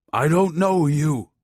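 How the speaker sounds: put-on high, slow old man's shout. A narrator's reading. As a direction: shout him away. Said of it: "Don Juan shouted".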